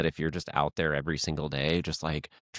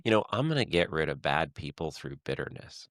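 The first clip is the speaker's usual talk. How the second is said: sarcastic. Acted. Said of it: "There's heavy sarcasm in that".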